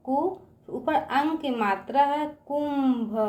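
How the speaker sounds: कु then कुंभ drawn out slowly, part by part; slow syllable building. Shown as a demonstration. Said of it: "teacher builds word syllable by syllable". (धीरे-धीरे कुंभ जोड़कर बोलना)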